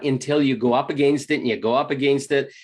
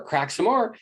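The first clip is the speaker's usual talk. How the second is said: higher, eager repeat; more excited; 6 semitones higher than usual. Retold or imitated. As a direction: push it further, keener now. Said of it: "and then it's like".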